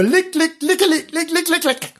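high, rhythmic lick lick; licking singsong. A narrator's reading. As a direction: tap out each lick. Kitten washing itself.

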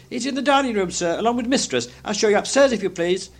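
high, obliging maid's voice; servant girl. A narrator's reading. Servant girl showing Scrooge to the dining room, high and dutiful. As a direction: keep it high and polite, like a maid.

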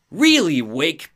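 high, loud opening dropping on the name; exasperated sidekick, lightly acted; Barry. Friend confronting Alan in his delusion, exasperated voice. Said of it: "Barry says".

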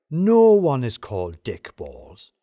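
loud, long-drawn incredulous protest; flat-out disbelief. A narrator's reading. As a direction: refuse to have it, stretching the first words loudly. Lem wasn't having it, loud refusal.

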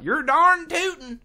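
"darn tootin'" high and slow in a put-on country twang; hammed-up hometown drawl; Gary's twang. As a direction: toss off the folksy line like a rural cousin. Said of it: "something like".

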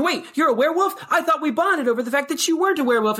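high, squeaky shocked disbelief; mock-outraged high voice; shocked betrayal. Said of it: "And they're like".

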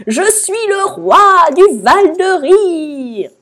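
high, loud, drawn-out jubilant cry; hilarious proclamation. A narrator's reading. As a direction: proclaim it as a king overcome with mirth. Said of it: "il annonça en se tordant de rire". (proclamation hilare et triomphante)

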